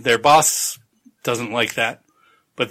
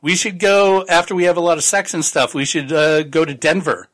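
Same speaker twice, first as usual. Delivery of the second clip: excited plan; 3 semitones higher, faster than usual. Retold or imitated. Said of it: "they're like".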